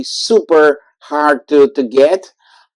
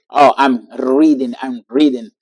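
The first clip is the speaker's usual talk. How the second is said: put-on Spanish accent quote; 2 semitones lower than usual. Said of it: "more people will say".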